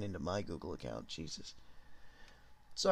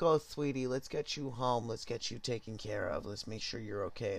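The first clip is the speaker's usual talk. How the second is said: mom voice. Retold or imitated. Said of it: "She's like".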